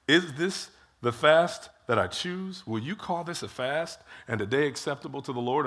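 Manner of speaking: drawn-out, slow "Is this the fast that I choose?"; slow sarcastic question. Retold or imitated. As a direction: stretch each word out, pointedly. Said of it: "But God is saying".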